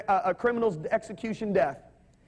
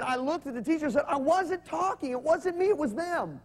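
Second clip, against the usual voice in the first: higher, childlike protest in a lightly voiced boy's voice; imitating his young son; 7 semitones higher than usual. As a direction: mimic a nine-year-old insisting he's innocent. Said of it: "He said".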